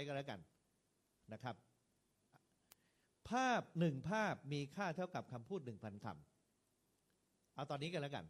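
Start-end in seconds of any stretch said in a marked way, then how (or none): 3.3-7.5 "ภาพหนึ่งภาพมีค่าเท่ากับคำพูดหนึ่งพันคำ" drawn out slowly, each word weighted; slow, weighty proverb. Shown as a demonstration. Monk restates the proverb for trainee preachers, very slowly and weighted. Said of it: "มีหนักมีเบา มีเน้น".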